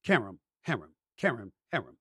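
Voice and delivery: low, measured "Qerim, harem" repeated as a matched pair; match "Qerim" to the sound of "harem"; rhyming name drill. Shown as a demonstration. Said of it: "Qerim rhymes with harem".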